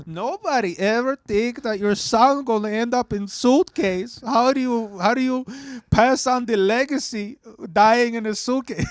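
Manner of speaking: put-on high grieving mother, thick Latino accent. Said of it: "she's just got a thick, like, Latino accent".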